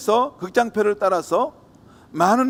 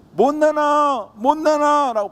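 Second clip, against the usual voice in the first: calling out; 8 semitones higher, 4 dB louder, slower than usual. Acted. Mother calling for lost child.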